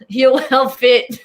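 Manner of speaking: put-on drawn-out copy of a British accent; imitated British accent. Host echoing the co-host's chat-up, slow mimicked accent. Copying the accent just demonstrated.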